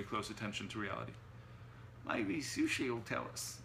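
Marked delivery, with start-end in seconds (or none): 2.1-3.6 slow, squawking Cockney gremlin; Tanglebait. A narrator's reading. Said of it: "squawked Tanglebait".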